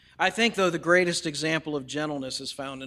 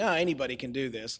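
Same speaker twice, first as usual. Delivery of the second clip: imitating Bob Ross; 5 semitones lower, 4 dB quieter, faster than usual. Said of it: "The whole time he's saying".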